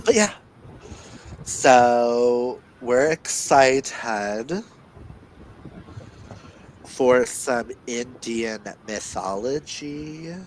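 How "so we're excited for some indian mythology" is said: slow, stretched-out delivery; drawn-out intro. Real, not acted. Co-host teasing out the book's topic, slow and drawn out. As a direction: draw the words out with pauses.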